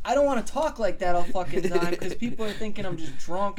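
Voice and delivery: a quick Irish accent, shown off mid-rant; Irish accent demo. Shown as a demonstration. Guy showing friends how he'd sound talking Irish. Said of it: "this is how".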